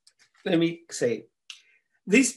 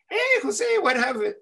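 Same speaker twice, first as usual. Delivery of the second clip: put-on high-pitched kid greeting; little Johnny calling out; 10 semitones higher than usual. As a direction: call out high, like a little boy. Little Johnny greets him in the story.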